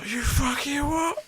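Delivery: high, laughing chav challenge; full chav mode. Retold or imitated. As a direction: play a laughing chav squaring up. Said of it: "full chav mode".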